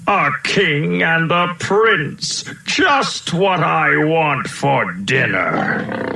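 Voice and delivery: mild mock roar of a hungry lion. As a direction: savour the words like a hungry lion. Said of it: "roared the lion".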